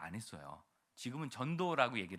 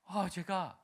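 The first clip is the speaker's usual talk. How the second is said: ordinary talk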